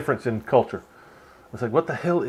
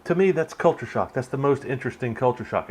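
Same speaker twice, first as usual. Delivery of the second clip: usual speaking voice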